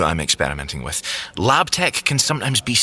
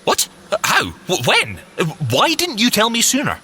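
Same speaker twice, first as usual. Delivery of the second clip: higher, tumbling questions; flustered surprise; 11 semitones higher than usual. Acted. Fitz stunned that Simmons saw the lab without him, flustered. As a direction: sputter in disbelief. Fitz shocked she visited.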